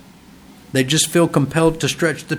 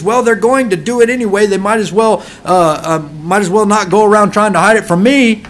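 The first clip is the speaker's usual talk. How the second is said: higher-pitched mock parental excuse; imitated permissive parent; 4 semitones higher, 4 dB louder than usual. Parent excusing a swearing child, mock permissive. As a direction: imitate a parent waving it away, voice raised. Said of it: "The parent's attitude is".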